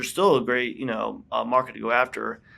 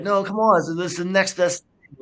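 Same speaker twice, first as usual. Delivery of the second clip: higher pleading voice of the investors, pressing him to buy in; mock pleading; 8 semitones higher, 5 dB louder than usual. Investors pleading with him over lunch, mock pleading voice. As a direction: coax like a salesman who won't take no.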